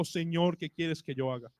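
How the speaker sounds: soft, hushed, awed plea; trembling and fearful. Acted. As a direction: answer the Lord in quiet fear. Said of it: "Él temblando y temeroso dijo". (súplica temerosa y suave)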